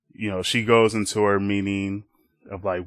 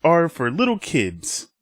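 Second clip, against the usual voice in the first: rebellious Winter; 7 semitones higher, 4 dB louder than usual. Acted. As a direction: proclaim it like a child playing grown-up. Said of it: "And Winter's like".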